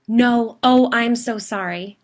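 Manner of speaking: high, loud, slow sorry through mild laughter; laughing apology. A narrator's reading. Gwen apologizing for the prank, laughing. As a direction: apologize while cracking up. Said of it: "breaking down into laughter again".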